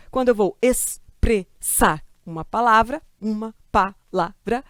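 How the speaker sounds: stammering. Shown as a demonstration. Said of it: "como se eu fosse uma gaga".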